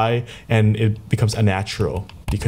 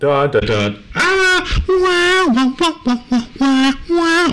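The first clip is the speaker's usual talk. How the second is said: very high ferret chatter. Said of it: "It's a ferret".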